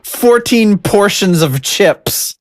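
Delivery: exaggerated British accent, high and drawn out; mock British quote. Host parroting the British performer's line, mock British accent. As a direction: slowly savor it in mock British. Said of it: "A very American thing to say".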